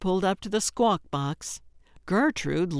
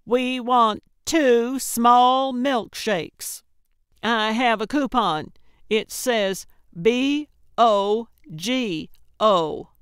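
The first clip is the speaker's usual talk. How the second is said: loud, high, slowly spaced out; over-enunciate loudly for someone hard of hearing; annoyed hollering; 5 semitones higher, 5 dB louder, slower than usual. A narrator's reading. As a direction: holler the order into the speaker box. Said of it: "Gertrude hollered at the box, well beyond annoyed".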